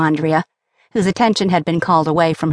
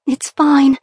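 laughing; 8 semitones higher, 4 dB louder than usual. Acted. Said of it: "Carla laughed".

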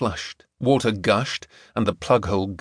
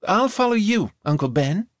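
put-on American girl voice; 9 semitones higher than usual. A narrator's reading. Gemma's voice.

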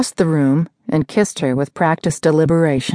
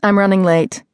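sharp; 3 semitones higher than usual. Acted. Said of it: "Sloane said sharply".

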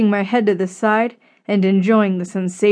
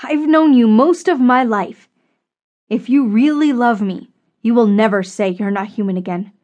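firm, impassioned insistence; stern rebuke. Acted. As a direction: lay down the law, phrase by phrase. Susan sternly rebukes Frank after insult.

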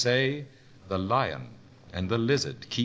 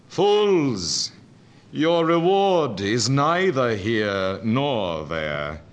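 a loud, slow call from a tower; muezzin cries out; 5 dB louder, slower than usual. Acted. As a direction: cry it out like a muezzin calling the faithful. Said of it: "a Moezen from the tower of darkness cries".

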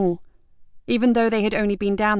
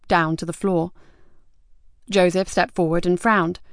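ordinary delivery

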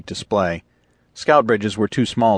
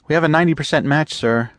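put-on higher, eager young officer voice; eager lieutenant; 8 semitones higher, 3 dB louder, faster than usual. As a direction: report the find with keen urgency. Lieutenant gives confidence.

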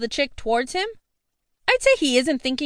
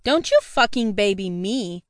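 angry hiss; 4 semitones lower than usual. Acted. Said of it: "I hiss through gritted teeth".

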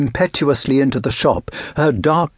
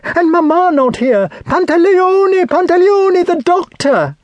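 put-on high, loud girl in panic; desperate high-voiced lament and call for help; distressed crying out; 4 dB louder than usual. A narrator's reading. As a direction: wail the words frantically, pitched far up. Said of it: "she cried".

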